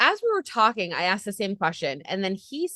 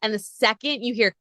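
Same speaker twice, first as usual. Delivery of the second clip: usual speaking voice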